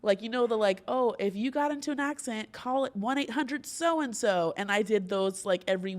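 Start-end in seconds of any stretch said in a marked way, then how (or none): 0.9-4.5 higher-pitched, cheesy ad delivery; corny car commercial. Retold or imitated. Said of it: "really bad and corny car commercials".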